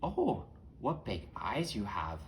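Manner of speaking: Little Red Riding Hood. Acted. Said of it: "Little Red Riding Hood says".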